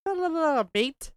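mock Australian accent. Friend jokes about Australian slang, in a light mock Australian accent. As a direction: toss off a joke Australian "Good day, mate". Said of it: "is it an Australian? Wouldn't they use the mate?".

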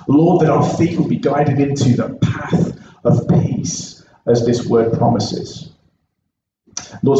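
measured, earnest prayer with deliberate pauses. Real, not acted. Preacher praying to God before his congregation, prayer. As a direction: pray aloud, phrase by phrase.

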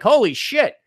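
high, wide-eyed mock amazement; amazed ex-Amish kid. A kid leaving a strict church sees boobs, high mock amazement. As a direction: gush like someone seeing it all for the first time.

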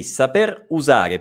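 "saper usare" with "saper" ending on a sounded R; two distinct words, "saper usare", no E between; highlighted final R. Shown as a demonstration. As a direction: show the R at the end of "saper", then "usare". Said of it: "perché ho evidenziato questa R".

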